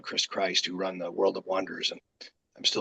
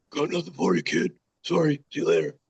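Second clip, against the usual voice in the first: curt brush-off; 7 semitones higher than usual. Retold or imitated. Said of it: "just was just like".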